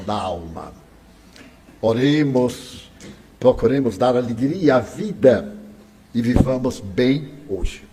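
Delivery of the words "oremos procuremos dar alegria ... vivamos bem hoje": prayerful. Real, not acted. Closing with a call to pray.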